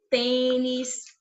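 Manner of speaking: "tênis" with a closed "ê"; closed vowel. Shown as a demonstration. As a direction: keep the stressed "ê" of "tênis" closed. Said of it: "a vogal tem o som fechado". ("tênis" com o "ê" fechado)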